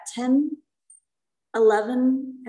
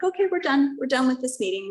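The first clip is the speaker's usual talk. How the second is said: brisk wrap-up; 3 semitones higher than usual. Retold or imitated. Leading a meeting, cheerfully shutting it down to dodge sharing. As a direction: hurry them out like it's nothing. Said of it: "I was like".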